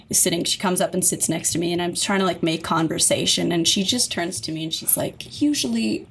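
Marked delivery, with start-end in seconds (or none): 5.4-6.1 snooty whisper. Retold or imitated. Snooty woman snubs caregiver.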